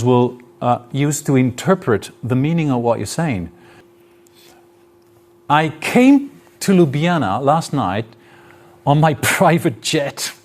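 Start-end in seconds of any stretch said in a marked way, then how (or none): 5.5-10.3 tongue-in-cheek claim, pausing before "private jet"; mock boast landing on "private jet"; ironic intonation demo. Shown as a demonstration. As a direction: say "private jet" as a knowing, playful brag. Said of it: "that's intonation".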